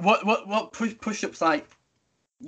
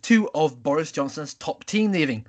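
mock newsreader with punched names; news read; 2 semitones lower, 5 dB louder than usual. Host opening the news round, newsreader delivery. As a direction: read it like a bulletin, hitting the openings.

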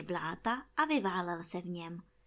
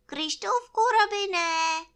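high, loud, drawn-out call; 10 semitones higher, 8 dB louder, slower than usual. A narrator's reading. Bear calls down to his friend again, high loud call. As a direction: hail a friend from up high, stretching the name. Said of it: "potom zas na Krištůfka zavolal".

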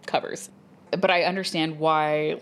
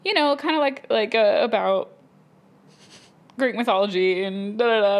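flustered self; 5 semitones higher than usual. Retold or imitated. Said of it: "And I was like".

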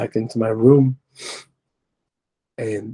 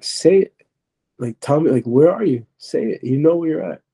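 higher-pitched, pressing retold voice; insistent demand; 4 semitones higher than usual. Demonic voice pushes him to say it, insistent. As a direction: press for an admission, pitch raised.

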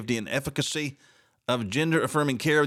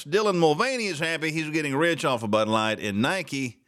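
ordinary talk, nothing marked

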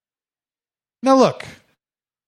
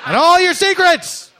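loud high dramatic accusation; mock accusation; 12 semitones higher, 5 dB louder than usual. Comic accusing all dogs of secrets, loud high mock drama. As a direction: unmask the dogs like a villain.

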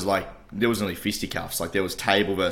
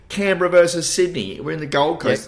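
indignant rant; 8 semitones higher, 5 dB louder than usual. Real, not acted. Outraged about wrong game shown.

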